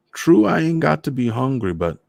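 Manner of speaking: put-on high Trinidadian old man; teasing old man from back home; Trinidad accent. Voices Mister Morris.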